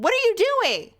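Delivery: high, lightly voiced demanding dream voice. A narrator's reading. Voice in the dream asking, a hint of demand. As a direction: call it out like a voice in a dream. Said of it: "a faint voice off in the distance".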